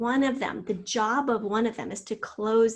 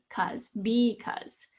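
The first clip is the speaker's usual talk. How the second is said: syllable by syllable; much slower than usual. Shown as a demonstration. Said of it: "long vowel sound at the end of a syllable".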